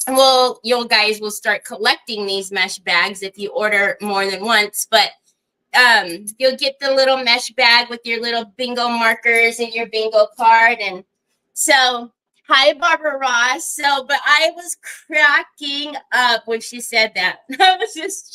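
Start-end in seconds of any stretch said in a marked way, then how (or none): none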